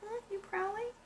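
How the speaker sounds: high, sing-song coo to a pet. Real, not acted. Painter cooing at her black cat, high baby talk.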